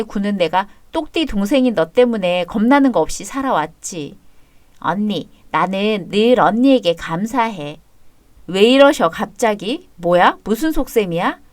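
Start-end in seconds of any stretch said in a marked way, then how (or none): 4.8-7.8 slow, sincere thanks to her sister; tender. Acted. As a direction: say it slowly, from the heart. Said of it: "왜 그렇게 다정하게 불러".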